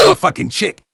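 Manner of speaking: high-pitched mock disbelief; mock incredulous. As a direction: echo it in high, hammed-up disbelief. Friends' incredulous reaction, acted out.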